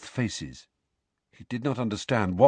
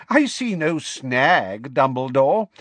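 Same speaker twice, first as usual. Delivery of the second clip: slow, raised, triumphant; vibrating with joy; 4 semitones higher, 4 dB louder, slower than usual. A narrator's reading. Minister dismissing the headmaster's objection, joyful. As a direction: savour it with joyful confidence. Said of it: "his voice still vibrating with joy".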